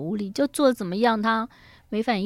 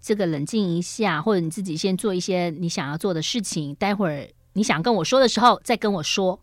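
understanding; 3 semitones lower, 4 dB quieter than usual. Shown as a demonstration. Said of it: "不如讲说".

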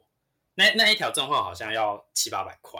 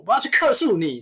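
higher, louder retold threat; mock shout; 10 semitones higher, 7 dB louder than usual. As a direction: yell the complaint threat. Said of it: "整个在楼面上大喊". (模仿顾客在楼面大喊)

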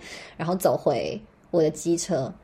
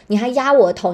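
ordinary delivery

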